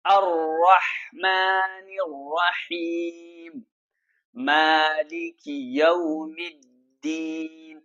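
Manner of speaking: slow, measured tajweed recitation; slow melodic Quran chant. Shown as a demonstration. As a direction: recite it slowly like a qari. Recites verses.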